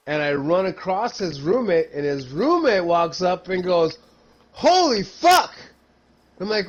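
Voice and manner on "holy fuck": loud, slow, high shocked exclamation; shocked shout. Retold or imitated. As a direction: blurt it out in shock. Shocked roommate at the bar.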